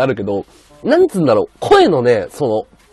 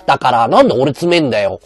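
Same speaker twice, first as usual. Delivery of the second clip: louder, hammed-up streamer telling off a listener; mock-angry Yuiga rant; 3 semitones higher, 7 dB louder than usual. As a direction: playfully snap back, imitating a riled-up streamer. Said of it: "とか言って". (配信者のまねで、リスナーに大声でふざけて怒る)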